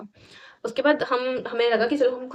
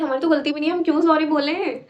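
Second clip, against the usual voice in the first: indignant protest; 5 semitones higher than usual. Retold or imitated. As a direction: imitate a put-out student refusing to apologise. Students refuse to apologise when told. (नाराज़गी भरा विरोध, नकल में)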